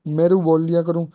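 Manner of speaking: mild mock echo of his wife's plea; lightly voiced teasing copy of the wife; mocking imitation. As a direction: mimic her words to tease her. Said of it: "इसकी नकल उतारते हुए बोला".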